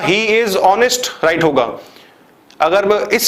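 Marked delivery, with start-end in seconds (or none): 0.0-1.2 each word spaced out, very slow; slow dictation. Shown as a demonstration. Teacher reading a correct example to students, very slow. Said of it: "मैंने बोला".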